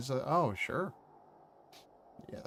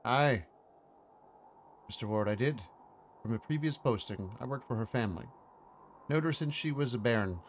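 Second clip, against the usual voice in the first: light Scottish groundskeeper, fond; a touch of Scottish brogue, "bairn" rolled; Scottish accent. Acted. Groundskeeper tells Mister Ward of her, Scottish lilt. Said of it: "That's from watching some Scottish stuff".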